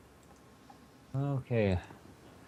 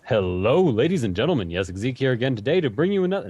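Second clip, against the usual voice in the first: booming hammed-up radio host intro; radio announcer voice. Shown as a demonstration. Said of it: "I'm not gonna talk like that".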